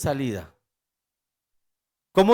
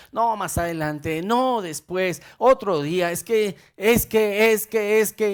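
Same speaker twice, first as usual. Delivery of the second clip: excuses; 3 semitones higher than usual. Retold or imitated. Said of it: "hay gente que dice".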